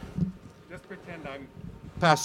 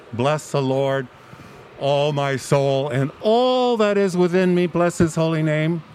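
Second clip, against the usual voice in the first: liturgical recitation. Acted. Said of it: "the proper liturgical use of that Psalm".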